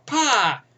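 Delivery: short punchy "pah" crash noise; imitated crash. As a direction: mimic the car hitting with a pop.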